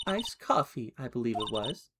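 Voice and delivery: lightly high, coy witness voice; April May. Acted. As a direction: act coy and innocent.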